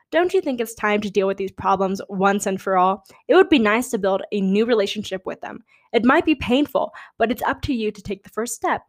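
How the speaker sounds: steady read-aloud voice; reading horoscope aloud. Acted. Reading her Taurus horoscope to viewers, steady read-aloud.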